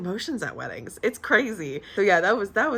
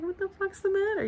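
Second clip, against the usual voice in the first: high, light mock bewilderment; puzzled pet-talk; 13 semitones higher, 4 dB quieter than usual. Recalling asking her meowing cat, high-pitched puzzlement. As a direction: ask the cat in a small, high voice.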